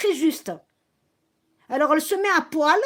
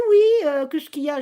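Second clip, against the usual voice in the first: mocking Shakina; 6 dB louder than usual. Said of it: "Elle me dit".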